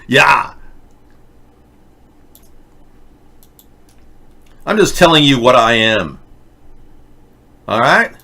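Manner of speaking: lightly mocked Germanic Terminator accent; a touch of Germanic robot-cop; Arnold Schwarzenegger. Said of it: "That's just Arnold Schwarzenegger's inability to cope".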